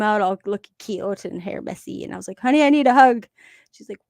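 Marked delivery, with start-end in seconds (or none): 2.4-3.3 mildly raised, louder plea to daughter; lightly voiced request for a hug; retold plea. Mom asking her daughter for a hug, mock pleading.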